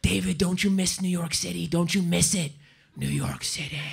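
put-on wistful German-accented questioning; excited German. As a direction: imitate an awed German admirer. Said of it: "German people get excited about New York City".

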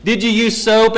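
put-on quick, prying mother checking on kids; a mom who doubts you washed; suspicious mom. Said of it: "And she'll ask it".

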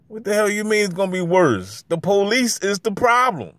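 high-pitched exasperated protest; indignant rant. Real, not acted. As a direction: fire back at the critics. Ranting against the mocked claim.

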